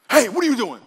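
loud, high sudden holler; booming false God voice. Acted. Preacher shows congregation what God's voice isn't, booming holler. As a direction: holler it out like a scolding from above. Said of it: "what God's voice isn't".

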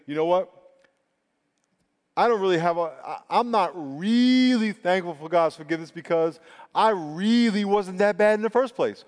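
a touch of smug self-satisfaction; self-righteous mock. Preacher voices a self-righteous churchgoer, mildly smug. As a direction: lightly play the smug believer. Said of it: "some people will think".

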